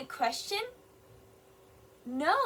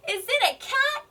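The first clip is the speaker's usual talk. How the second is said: much higher, louder, rising "cat"; excited question; 11 semitones higher, 6 dB louder than usual. Shown as a demonstration. Teacher voicing Golly's eager question, high and rising. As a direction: ask it with a big excited lift. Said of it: "does have a question".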